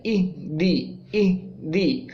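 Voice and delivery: اہ دی split in two with a bounce on ہ; wrong way shown. Shown as a demonstration. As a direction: break اہ دی apart, jolting the ہ. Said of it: "اگر ہم اس کو اہ، اہ دی کریں گے تو یہ ایک تو ہل جائے گا".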